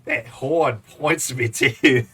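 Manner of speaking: horn stretched slowly with an Aussie vowel; Australian accent on horn. Shown as a demonstration. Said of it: "how do you say horn in an Australian accent".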